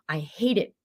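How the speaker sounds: breathy whispered complaint after a sigh. Retold or imitated. A fed-up worker whispering about her job. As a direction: let it slip out, worn down.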